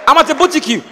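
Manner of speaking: "boutique" said as "boo-tee-cue"; mispronunciation blunder. Retold or imitated. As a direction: end "boutique" on a confident "kyoo". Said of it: "You now hear blunders everywhere".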